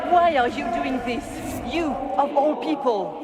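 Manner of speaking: high, loud, hurt accusation; loud pained demand; anguished outcry. Acted. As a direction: shout in disbelief at the betrayer. Memory of a betrayal.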